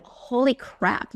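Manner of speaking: slow, drawn-out amazed holy crap; retold astonishment. Host retelling reading the book in her car, slow stunned exclaim. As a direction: relive the moment the name clicked. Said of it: "Literally, I just went".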